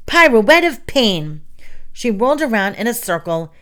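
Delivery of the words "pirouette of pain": loud, drawn-out attack call; raised, hammed-up battle cry; theatrical shout. A narrator's reading. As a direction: shout it slowly like a signature wrestling move. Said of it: "threw her arms out to her sides and shouted".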